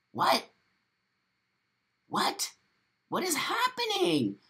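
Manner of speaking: very high-pitched bafflement; shocked disbelief. Real, not acted. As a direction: squeak it out in utter disbelief. Shocked by definition just read.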